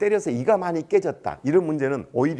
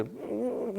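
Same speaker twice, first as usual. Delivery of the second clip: soft imitated "mm"; wordless mumble; 7 semitones higher, 11 dB quieter, much slower than usual. Imitating the student who cannot follow, soft wordless hum. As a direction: hum vaguely in place of an answer. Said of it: "이러고만 있는 거예요".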